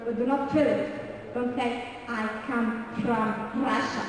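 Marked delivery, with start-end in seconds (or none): 2.1-4.0 slow Russian-accented English. Shown as a demonstration. Teacher shows class what not to say, Russian accent. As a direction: overdo the R like a Russian speaker. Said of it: "That's very Russian".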